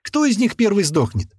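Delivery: high, showy taunting question; theatrical announcer. A narrator's reading. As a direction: put it to the crowd like a showman. Gunman theatrically invites bets.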